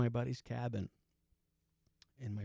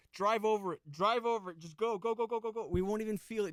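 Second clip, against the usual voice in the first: high-pitched frantic backseat urging; urgent plea; 6 semitones higher than usual. Retold or imitated. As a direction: rattle out repeated orders, pleading. Retold backseat plea to driver.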